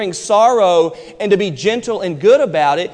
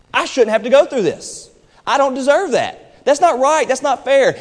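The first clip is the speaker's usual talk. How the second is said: aggrieved complaint; 5 semitones higher than usual. Retold or imitated. Voicing a sufferer's complaint.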